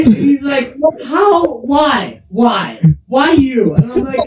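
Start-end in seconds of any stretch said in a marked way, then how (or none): 1.0-3.7 high, pleading imitation; mock anguished questioning. Imitating rejected friend questioning him, mock anguish. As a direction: act out a hurt friend, voice pitched up.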